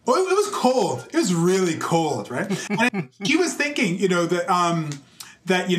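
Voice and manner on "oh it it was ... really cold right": joking answer. Retold or imitated. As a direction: toss off the joke in a raised voice. Mock answer about Calgary.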